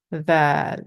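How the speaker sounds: "Val" with a light th as in "this", slight smile; thin, smiling sound. Shown as a demonstration. Teacher shows the smiling position, thin sound. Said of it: "a little bit in a smiling".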